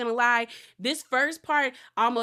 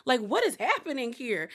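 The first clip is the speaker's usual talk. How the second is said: startled near tears; 4 semitones higher than usual. Retold or imitated. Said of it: "Like, I was like".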